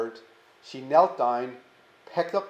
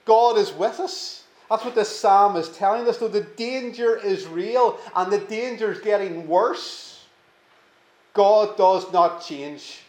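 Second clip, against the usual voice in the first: preaching at full force; 4 semitones higher, 3 dB louder than usual. Real, not acted. Preaching climax.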